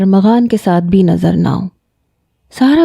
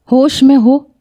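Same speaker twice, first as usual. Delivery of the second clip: scolding mother; 5 semitones higher than usual. A narrator's reading. Mother scolding accusing nephew.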